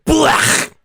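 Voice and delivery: harsh guttural metal blech scream. Shown as a demonstration. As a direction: belt a gritty metalcore blech. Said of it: "let me kick you off with a blech".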